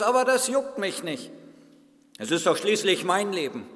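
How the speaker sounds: indignant clay lump, lightly voiced; talking lump of clay. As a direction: play a grumpy lump of clay being grabbed. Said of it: "Habt ihr schon mal einen Tonklumpen reden gehört?".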